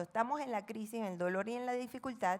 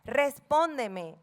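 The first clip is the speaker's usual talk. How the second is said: urgent plea; 2 semitones higher, 6 dB louder, much slower than usual. Retold or imitated. David's desperate prayer quoted.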